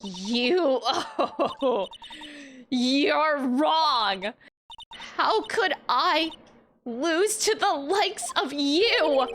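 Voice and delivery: a laugh, then slow high disbelief; scornful laugh. Acted. Villain laughing off the spirit's claim in disbelief.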